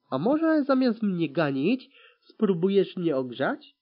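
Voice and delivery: loud, cheeky challenge; teasing. A narrator's reading. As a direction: provoke them playfully. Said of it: "Pytałem zaczepnie".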